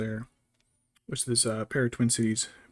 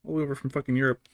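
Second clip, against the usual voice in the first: retold outrage; 3 semitones higher, 4 dB louder than usual. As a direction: spit it out in disbelief. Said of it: "was like".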